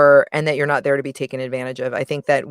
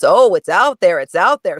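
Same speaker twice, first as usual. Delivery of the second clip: teasing, louder singsong echo of her phrase; mocking repeat; 2 semitones higher, 5 dB louder than usual. Harry mocking Sally's phrase, louder teasing echo. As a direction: parrot her words back to make fun of them. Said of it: "So he makes fun of the word".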